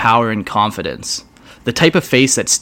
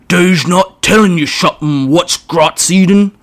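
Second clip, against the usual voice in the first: high, loud goblinoid voice; goading orc god; 8 semitones higher, 6 dB louder than usual. Acted. Orc god whispering to Urk, sly goad. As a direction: egg the boss on slyly.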